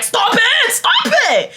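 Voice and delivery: high mock teacher yelling stop; mock angry teacher. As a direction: shout it like a fed-up teacher.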